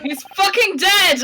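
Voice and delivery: shouting that he's dead; shocked shout. Real, not acted. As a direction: yell it in horrified disbelief. Players react to character death.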